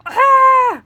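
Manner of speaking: loud, high pained cry; startled yelp to stop the jumping; hurt yelp. Shown as a demonstration. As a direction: yelp out like you've been hurt. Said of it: "same kinda thing".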